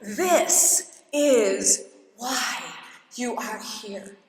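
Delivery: very slow and hushed; voice of God. Retold or imitated. God answering her at the altar, slow and hushed. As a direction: say it slowly, as a divine whisper. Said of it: "I heard God say".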